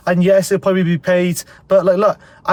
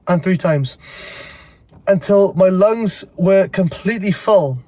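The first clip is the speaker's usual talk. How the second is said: stuffy, congested voice; blocked nose. Real, not acted. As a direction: speak like you have a head cold. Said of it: "I'm quite bunged up from a cold".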